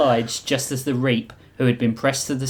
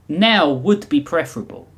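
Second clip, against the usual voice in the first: put-on higher-pitched, loosely Russian accent; vaguely Russian accent; 6 semitones higher than usual. The Reap speaks as if to no one, raised Russian accent. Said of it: "said as if to no one".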